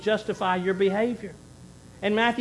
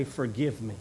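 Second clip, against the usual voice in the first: soft, lower, humble plea; a contrite, lowered forgive me; grovelling plea; 6 semitones lower, 6 dB quieter than usual. Retold or imitated. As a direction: beg it quietly at their feet. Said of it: "go grovel at their feet and say".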